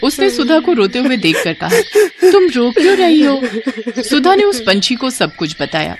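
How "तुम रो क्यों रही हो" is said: high-pitched little bird voice; kindly bird. Acted. Bird asks crying woman what's wrong, high-voiced concern. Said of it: "उसी पेड़ पर एक पंछी रहती थी".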